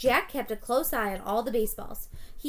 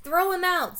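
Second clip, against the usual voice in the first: angry jeer; 8 semitones higher, 5 dB louder than usual. A narrator's reading. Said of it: "said another".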